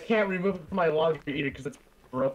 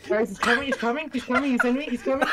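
laughing tease; 4 semitones higher, faster than usual. Pretend. Mocking friend's slip, laughing.

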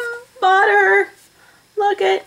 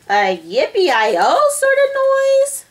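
high, loud, stretched-out wife; slow it down, high and swooping; wife's voice; 10 semitones higher, 5 dB louder, slower than usual. A narrator's reading. Wife describing the noise to husband, high voice.

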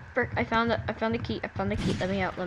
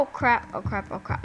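scared and angry; 5 dB louder than usual. Real, not acted. Cornered by enemy in game.

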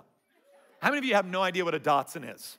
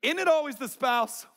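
laughing; 10 semitones higher than usual. Real, not acted. True crime joke, laughing.

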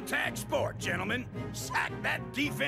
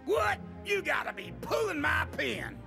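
surprised outburst; 4 semitones higher than usual. Acted. General shocked at peace news.

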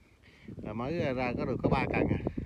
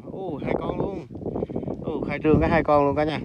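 delighted cry; 4 semitones higher, 10 dB louder than usual. Real, not acted. Two fish caught at once.

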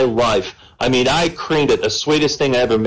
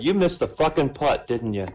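quiet deadpan punchline; 5 dB quieter than usual. Acted. Punchline from stern Mother Superior.

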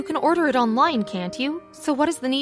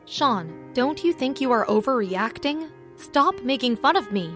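grunting. Acted. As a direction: push back, mildly annoyed. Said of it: "Madeline grunted".

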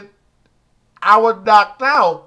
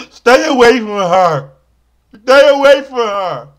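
urgent warning; 2 semitones higher, 6 dB louder than usual. Acted. Warning the public, repeated.

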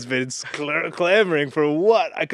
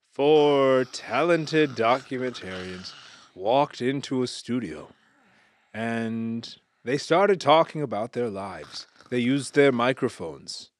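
slow, soothing documentary narration; documentary narrator; 2 semitones lower, slower than usual. Shown as a demonstration. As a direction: lull them with a slow narration. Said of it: "do a little excerpt of your voice".

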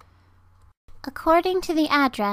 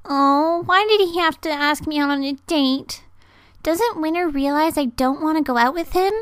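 fandom dub audition. Acted. Acting an anime girl's monologue.

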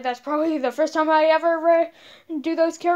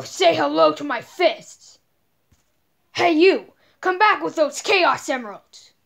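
Knuckles voice. Acted.

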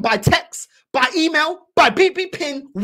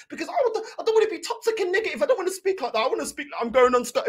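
mocking squeamish fans; 2 semitones higher, faster than usual. Mimics squeamish, arrogant fans.

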